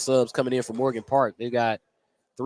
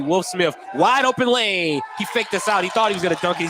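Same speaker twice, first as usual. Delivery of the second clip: excited call; 4 semitones higher than usual. Real, not acted. Announcer calling a big play.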